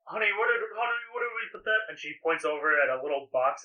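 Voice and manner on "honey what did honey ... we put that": wife asking husband. Acted. Blacksmith asks husband.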